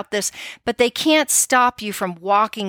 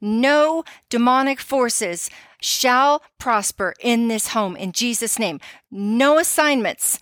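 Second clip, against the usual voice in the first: prayer. Shown as a demonstration. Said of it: "And we say".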